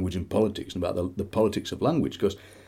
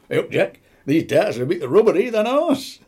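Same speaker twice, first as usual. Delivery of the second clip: mock complaint; 8 semitones higher, 4 dB louder than usual. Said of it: "You have to go".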